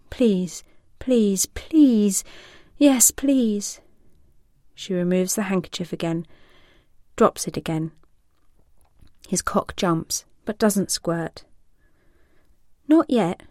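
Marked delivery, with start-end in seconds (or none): 0.1-3.8 whispered plea building to a higher, louder beg; begging. Acted. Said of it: "he begs". 12.9-13.4 teasing denial. Acted. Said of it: "she tells him".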